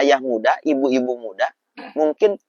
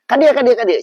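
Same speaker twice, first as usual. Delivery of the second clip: high, loud calling out; mother calling; 11 semitones higher, 9 dB louder than usual. Retold or imitated. Mother summoning her son across the house, calling loud. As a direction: call the child over from afar.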